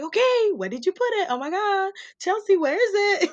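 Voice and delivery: high, fast frantic pleading; frantic searching. Retold or imitated. Narrator to sister Chelsea, high fast frantic pleading. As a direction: act out hunting for something, panicking.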